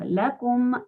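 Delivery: Lakum dinukum said slowly, the mim clearly heard. Shown as a demonstration. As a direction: take your time so the mim in Lakum dinukum comes through. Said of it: "leamos con tranquilidad".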